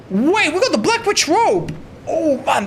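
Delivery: laughing, squealing with delight; thrilled high-pitched outburst; excited. Real, not acted. Finding rare armor, thrilled.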